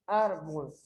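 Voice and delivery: "árbol" said syllable by syllable; teacher separating "árbol" into syllables; split into syllables. Shown as a demonstration. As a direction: break "árbol" into two parts, ár, bol. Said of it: "separo em sílabas".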